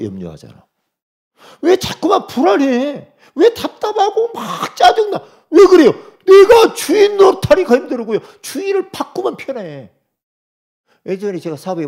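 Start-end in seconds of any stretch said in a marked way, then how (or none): 1.6-9.9 higher and louder, building to a shout; fervent shouting. Real, not acted. Pastor pressing the congregation on their anxiety, shouting. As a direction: hammer the questions home at full force.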